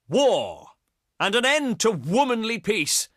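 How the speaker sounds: proud, ringing challenge; war declaration. Acted. Greek leader declaring war on a rival, proud challenge. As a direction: declaim it with rising martial zeal.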